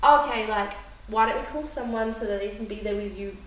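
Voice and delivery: even, unbothered problem-solving; still calm. Retold or imitated. Partner suggesting someone sit with her, still calm. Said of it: "no, still calm".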